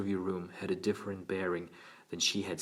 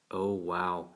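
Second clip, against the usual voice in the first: gasped. A narrator's reading. Frightened boy realizing he told the secret, gasped. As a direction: let it out as a small gasp. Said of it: "he gasped".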